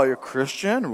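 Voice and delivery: a lightly voiced doubtful stranger; mock disbelief. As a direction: let it drop in dry disbelief. Mocking stranger quoting churchgoer.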